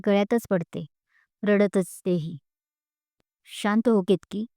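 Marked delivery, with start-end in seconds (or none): 3.5-4.5 slow, gentle calming words; tender soothing. Acted. Teacher calming a crying student, slow and tender. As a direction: soothe her gently, slowly. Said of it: "मायेनं हात फिरवत म्हणाल्या".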